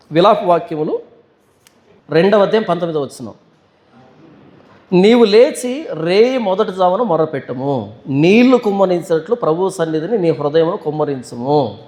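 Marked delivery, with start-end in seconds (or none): 4.9-11.8 slow, measured verse reading; scripture reading. Acted. Preacher reads the lament verse to the congregation, scripture reading. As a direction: read the verse slowly, stretching the phrase endings.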